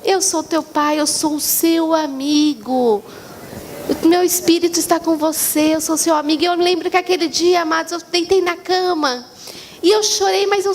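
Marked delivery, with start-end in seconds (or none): 0.0-6.4 God tender. Acted. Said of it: "e aí ele falou".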